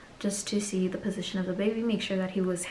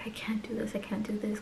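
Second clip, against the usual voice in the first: crying plea; 2 semitones higher, 5 dB quieter than usual. Retold or imitated.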